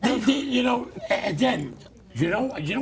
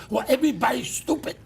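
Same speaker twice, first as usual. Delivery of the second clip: rising, louder mock retort; retold retort; 4 semitones higher, 3 dB louder than usual. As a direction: snap it back at the driver.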